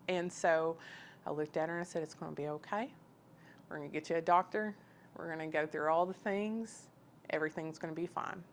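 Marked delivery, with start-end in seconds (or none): 2.0-8.4 calmly retold comforting words; calm reassurance. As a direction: reassure a distraught friend calmly. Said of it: "my reaction was so calm".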